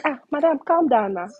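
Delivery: high, loud mock appeal to calm down; retold placating plea. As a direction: imitate someone urgently calming madam down.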